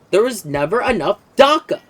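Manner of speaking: a touch of brutish orc voice; half-shouted orc boast; orc war cry. Retold or imitated. Streamer quoting the orc saying, lightly voiced orc. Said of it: "It is the orc thing of".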